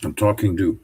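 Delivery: chewing while talking; mouth full. Real, not acted. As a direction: talk around a bite of food. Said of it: "With my mouth full".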